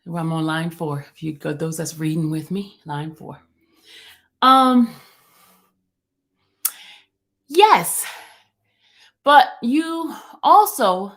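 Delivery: a lightly voiced attorney addressing the judge; Mister Steele. Playing attorney Steele before the court, lightly voiced counsel. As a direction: read it like counsel arguing a motion, only lightly changed. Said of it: "I'm Mister Steele right now".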